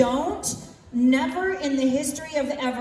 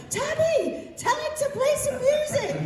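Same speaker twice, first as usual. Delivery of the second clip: put-on Scottish accent; 14 semitones higher than usual. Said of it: "She was like".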